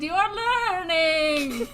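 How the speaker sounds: slow ghostly drone. Pretend. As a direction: moan it like a ghost. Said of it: "ghost intro".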